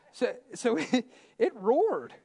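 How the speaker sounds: high, loud playful cub roar; lion cub roar. Pretend. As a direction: play the roaring cub. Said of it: "That's my cub roar".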